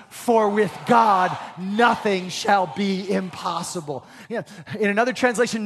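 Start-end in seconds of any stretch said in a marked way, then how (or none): 0.1-4.0 slow, stronger proclamation; louder. Shown as a demonstration. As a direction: declare it boldly to the congregation. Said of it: "Say it louder".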